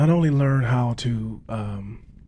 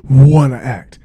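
stutter; 2 semitones higher, 8 dB louder than usual. Shown as a demonstration. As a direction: push the words out after a stuck pause. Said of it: "this is how I spoke".

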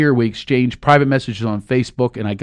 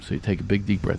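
soft guided breath; 2 semitones lower, 7 dB quieter, faster than usual. Shown as a demonstration. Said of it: "just like you're meditating".

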